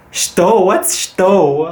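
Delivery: baffled. Retold or imitated. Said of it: "I'm like".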